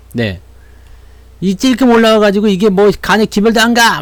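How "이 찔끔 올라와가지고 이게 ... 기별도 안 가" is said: higher, mildly indignant mock complaint; imitated griping investor. Streamer mimics investors unhappy with a small rebound, griping. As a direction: grumble like a dissatisfied shareholder. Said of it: "막 이렇게 생각하시는 분 계시는데".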